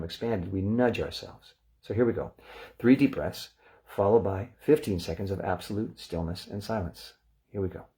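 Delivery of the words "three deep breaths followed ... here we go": calm, measured breathing instructions; guided breathing cue. Acted. Meditation teacher guiding the group, calm and measured. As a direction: talk them into the breath gently.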